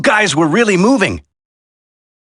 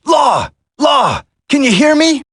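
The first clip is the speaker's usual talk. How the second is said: raised shout across the room; calling out; 3 semitones higher than usual. Acted. Soldier calling out to his wounded comrade. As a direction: call for a wounded friend.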